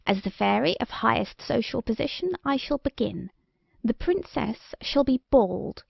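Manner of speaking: lightly voiced wicked old fairy; haughty, cold, menacing curse. Wicked old fairy Malevola speaks.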